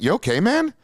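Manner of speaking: mock concern. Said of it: "I'm like".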